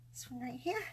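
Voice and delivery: soft whisper to herself. Real, not acted. Crafter whispering to herself while placing a droplet.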